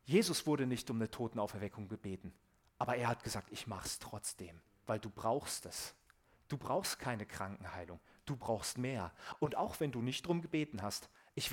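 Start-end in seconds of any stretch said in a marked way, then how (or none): 3.5-5.9 tender reassurance. Acted. Jesus voiced, tender reply.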